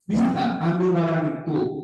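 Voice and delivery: "Bisa nggak ambil barang itu" as a request; question intonation. Shown as a demonstration. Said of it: "tanda tanya?".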